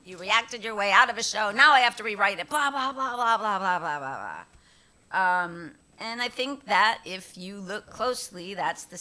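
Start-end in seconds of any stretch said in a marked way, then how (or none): 0.0-5.4 mock angry email. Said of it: "meanest email I've ever gotten".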